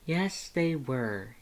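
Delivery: slow with weight on "they"; insist, pressing on "they"; firm affirmation. A narrator's reading. Lust corrects Dance about the humans, slow and firm. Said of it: "Lust affirmed".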